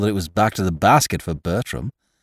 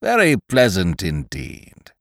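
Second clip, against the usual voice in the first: put-on pompous old gentleman; 3 semitones lower, slower than usual. Sir Roderick speaks.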